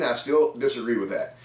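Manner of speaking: ordinary talk, nothing marked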